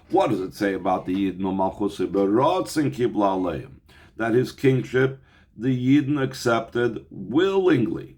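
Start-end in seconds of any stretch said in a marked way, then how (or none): none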